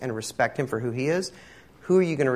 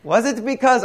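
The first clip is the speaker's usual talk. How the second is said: Jewish voice; 11 semitones higher, 7 dB louder than usual. Retold or imitated. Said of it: "I can just hear the Jewish voice here".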